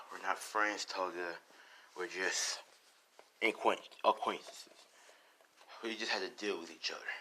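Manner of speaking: weary, soft-spoken denial; Dabi. Acted. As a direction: sigh it off, lightly in character.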